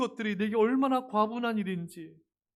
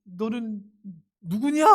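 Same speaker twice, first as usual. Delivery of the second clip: irritated scolding. Pretend. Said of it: "답답해하고 짜증내지 마시고".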